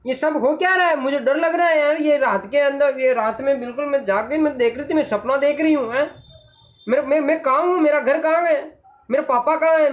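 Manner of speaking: put-on anxious girl asking where she is; girl lost at night, lightly scared; frightened girl. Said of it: "लड़की कह रही है".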